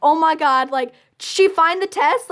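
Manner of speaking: mildly freaked-out inner monologue; a touch of alarmed disbelief; retold panic. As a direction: replay a stunned oh-my-God reaction. Panicked reaction to being caught.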